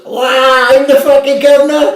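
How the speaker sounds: high, loud triumphant crowing; mock-boastful yell at teammates; gloating shout. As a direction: crow it at the whole room.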